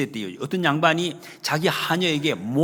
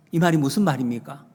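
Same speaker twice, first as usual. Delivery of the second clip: usual speaking voice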